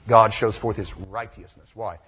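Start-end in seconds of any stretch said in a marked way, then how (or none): 1.0-1.7 righteousness as "RIGHT-ee-us-ness"; old English pronunciation. Shown as a demonstration. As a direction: open righteousness out with a hard t and "ee". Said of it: "when it was pronounced in the English four hundred years ago".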